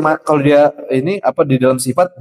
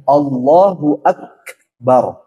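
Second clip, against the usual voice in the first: slow chanted "Allahu Akbar"; takbir call; much slower than usual. Shown as a demonstration. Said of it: "Nah, gitu ya". (takbir pelan dilantunkan)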